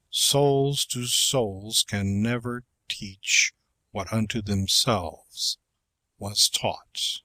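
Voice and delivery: slow, measured recitation; poem reading. Shown as a demonstration. Reading a poem to a class, slow and measured. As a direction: weigh each line of the verse.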